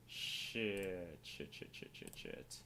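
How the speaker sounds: whispered string of "shit"s under his breath; whispered cursing. Real, not acted. A streamer whispers curses when the call drops. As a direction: hiss the curses to yourself.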